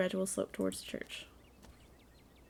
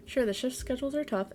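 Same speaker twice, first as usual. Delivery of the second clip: lightly voiced girl, pitched higher; girl's voice; 4 semitones higher than usual. Miner girl defending her job, a hint of girlish voice. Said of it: "This is, uh, the girl".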